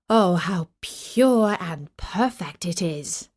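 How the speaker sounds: slow, marvelling admiration; awed king. Acted. King admires his golden apple, slow and awed. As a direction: linger over each word in wonder.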